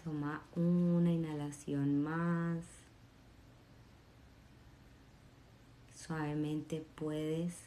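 soft, slow gratitude meditation voice; soft guided meditation read. Acted. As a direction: guide them gently into thankfulness.

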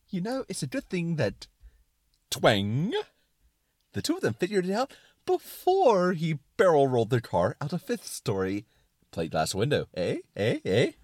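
high, emphatic glee with rising nudges; excited suspenders. Acted. Suspenders of disbelief winning over Brain, excited. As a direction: sell it eagerly, then nudge for agreement. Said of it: "talk in an excited tone".

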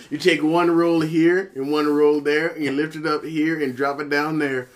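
put-on southern dance-caller accent, laughing at the start. Co-host teaching a made-up shake dance, southern accent. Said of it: "it was a southern accent".

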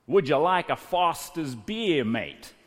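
a Frenchman's mock Aussie accent, lightly voiced; a French accent straining at broad Aussie, only hinted; French guy's Aussie impression. Interviewer offers the birthday boy a beer, in a mild mock Aussie accent. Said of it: "in his best Aussie impersonation".

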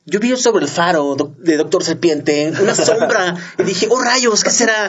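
dubbed news witness. Retold or imitated. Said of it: "diría el vato de tu noticia".

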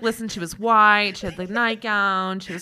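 dramatic ghost teller. Pretend. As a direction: tell it like a spooky campfire story. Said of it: "they're like".

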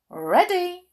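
high, loud little boot voice; squeaky boot voice. Acted. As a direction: play a tiny talking boot.

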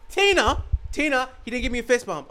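put-on high tattling kid calling mom; mock-whiny child voice. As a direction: whine to Mom like a bratty kid. Kid whining to his mother.

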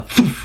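imitated thump. Game master imitates teleport noise.

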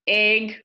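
"egg" with a long AY vowel, "ayg"; mother's egg. Retold or imitated. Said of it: "my mother says egg".

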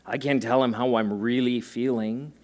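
timid inner voice. Retold or imitated.

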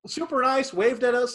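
loud and high, beaming; pleased, upbeat praise; happy. Real, not acted. Happy recap to the cohost of a good sale, excited.

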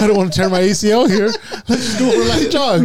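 giggling through a lazy runner's words; laughing while voicing.

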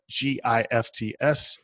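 slow, each letter separate; spelled out letter by letter. Shown as a demonstration. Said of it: "I'll spell it for my Southern accent".

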